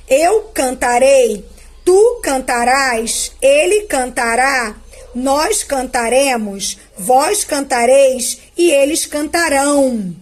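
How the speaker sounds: slow, ending stressed; slow conjugation drill. Shown as a demonstration. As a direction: dictate the forms to pupils. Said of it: "Esse rão aqui". (conjugação lenta, destacando a terminação)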